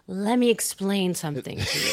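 hushed condescension; quiet condescending. Retold or imitated. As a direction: lean in and murmur it. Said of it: "leans over ... and says".

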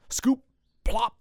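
high, loud scoop and plop; excited. Acted. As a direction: pop each word up high. Sound words while scooping bees.

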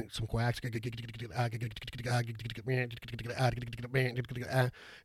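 words slurred into clicking call notes; duck call honks. Shown as a demonstration. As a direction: blow duck call greeters mid-sentence. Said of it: "Can mix in some lonesome hens".

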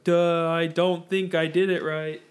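slow, dim-witted "Duh"; dopey voice. Retold or imitated. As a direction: play it slow and dopey, like a clueless trainee. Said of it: "You're like".

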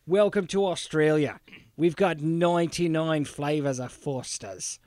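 slow, lightly mock Australian accent. Host mocking how Australians say nine, in a mild Aussie accent. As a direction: drawl it out as a half-hearted Aussie. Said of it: "they can't say the word nine".

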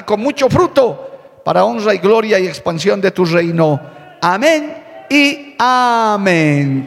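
fervent, measured prayer in emphatic phrases; congregational prayer. Acted. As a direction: lead the church in prayer, drawing out the final amen. Leads the opening prayer.

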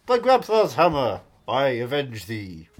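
slow, low, solemn oath; a hint of Rickman's grave delivery; Alan Rickman impression. Shown as a demonstration. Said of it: "Galaxy Quest".

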